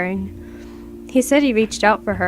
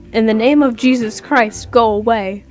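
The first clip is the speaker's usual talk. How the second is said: louder, forceful banishing command; commanding shout; 5 dB louder than usual. Retold or imitated. Cousin firing into the air, loud banishing command. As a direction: drive it off in Jesus' name.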